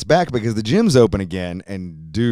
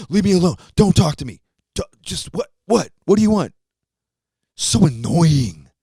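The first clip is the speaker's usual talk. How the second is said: put-on much higher, loud whiny teen brushing dad off; annoyed teen son; 8 semitones higher, 4 dB louder than usual. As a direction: whine like a pestered gamer kid. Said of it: "playing video games".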